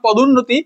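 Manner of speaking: "পদোন্নতি" with the short u audible in the middle; sounded short u. Shown as a demonstration. Teacher proving the u is pronounced in "পদোন্নতি", sounded short u. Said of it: "হর্ষটা উচ্চারণ হচ্ছে না আমার".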